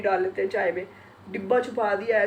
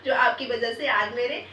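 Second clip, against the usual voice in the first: higher, louder, beaming with joy; excited thanks; 5 semitones higher, 5 dB louder, much slower than usual. Real, not acted. Vlogger thanking her YouTube family, excited. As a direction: gush your thanks, rising to a near squeal.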